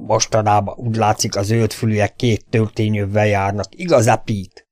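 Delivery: a hint of a sneer, lightly voiced; mocking question. Bull-necked man mocks the newcomer to his friend, mildly sneering. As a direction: tease the newcomer, understated. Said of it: "kérdezte gúnyosan".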